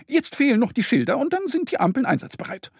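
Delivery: very high, fast ant squeak; tiny ant police calling. Acted. Ant police announcing themselves to Mo, squeaky call. Ants report.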